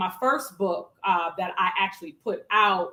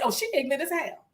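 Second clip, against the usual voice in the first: retold verdict; 4 semitones higher, 4 dB quieter, faster than usual. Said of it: "I said".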